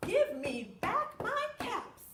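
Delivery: high, loud, slow mock-furious shout; theatrical angry demand; mad peddler. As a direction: stamp and yell it at the monkeys. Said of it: "He was mad".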